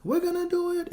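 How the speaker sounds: imitated dad in a very high falsetto yell; high-pitched, hammed-up cheering shriek; excited screaming. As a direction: squeal it in mounting hope. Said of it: "my dad just screaming".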